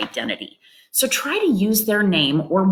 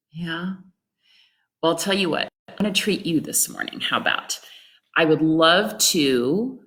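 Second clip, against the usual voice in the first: gentle caregiver. Shown as a demonstration. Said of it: "So let me try this".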